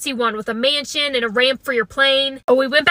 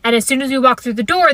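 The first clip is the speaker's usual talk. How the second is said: usual speaking voice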